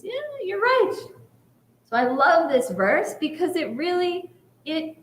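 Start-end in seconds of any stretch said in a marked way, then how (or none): 0.0-0.9 amused God. Retold or imitated. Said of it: "God smiles and laughs and says".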